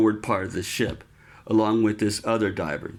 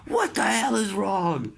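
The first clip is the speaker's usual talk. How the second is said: higher, a hint of a barking chief; gruff chief; 10 semitones higher than usual. Chief asking the injured sailor what's wrong, gruff. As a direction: snap the question like a busy chief. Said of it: "he goes".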